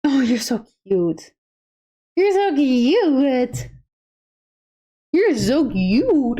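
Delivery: slow, strained squealing coo; cute aggression voice. Real, not acted. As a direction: gush with cute aggression, drawn out. Cooing over cute pet.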